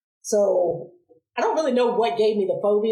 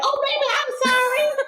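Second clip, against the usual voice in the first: much higher, syrupy mom voice; sweet mock apology. Mom cooing sorry to her daughter after burning her head. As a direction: coo it like a guilty mother soothing her child.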